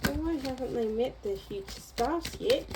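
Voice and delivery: put-on lapse into a light Australian accent. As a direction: casually try on an Australian accent. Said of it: "I don't know why I just did that accent".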